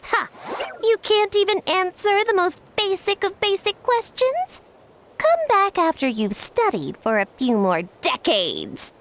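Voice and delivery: high, scornful gloating at the start; smug mock taunt. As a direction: lord it over the humans he plans to test. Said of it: "And then I'll say".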